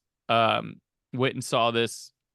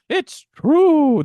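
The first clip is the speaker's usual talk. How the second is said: much higher, louder squeaky goblin imitation; 13 semitones higher, 9 dB louder than usual. Host imitating a little goblin minion, loud squeaky. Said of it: "But he's like".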